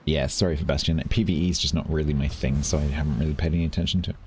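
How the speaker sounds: hoarse, croaky throat; talking through a croak. Real, not acted. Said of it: "Sorry about my croaky voice".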